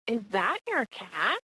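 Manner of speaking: slow, calm, matter-of-fact question. Retold or imitated. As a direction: ask it slowly, unbothered. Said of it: "very calmly says".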